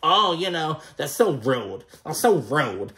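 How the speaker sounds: exaggerated Staten Island accent on drawn round vowels; mock Staten Island accent. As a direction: imitate a trashy Staten Island guy. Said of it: "quick talking Staten Island trash ass".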